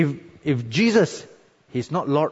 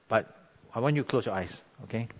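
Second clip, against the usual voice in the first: prayerful altar call. Acted. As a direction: draw them gently into prayer. Closing prayer over music.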